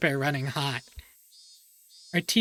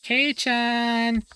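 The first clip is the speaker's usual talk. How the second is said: excited call; 7 semitones higher, 3 dB louder than usual. Acted. Mion calls out to Keiichi.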